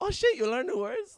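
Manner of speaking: mock thrilled, very high, excited outburst. Imitating a friend's reaction to learning new words: imitating Juan, excited. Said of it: "he gets so excited for us".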